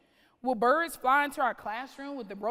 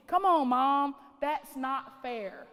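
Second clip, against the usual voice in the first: put-on kid whining; 2 semitones higher, 5 dB louder, slower than usual. Child complaining to mom.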